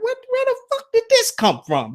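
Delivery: high-pitched, rattled what-the-hell shout; upset outburst. Retold or imitated. Bothered by a pop-up, he blurts out upset. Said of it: "'Cause I got real emotional about it".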